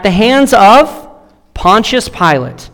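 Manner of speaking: slowed right down, leaning on each word; slow emphatic quote. Acted. Pastor quoting Tacitus to the church, slow and emphatic. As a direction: land the name Pontius Pilate deliberately. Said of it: "Here's what Tacitus says".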